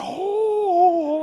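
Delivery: long, loud, high "oh"; hammed-up high gasp of admiration; amazed customer. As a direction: imitate someone hugely impressed.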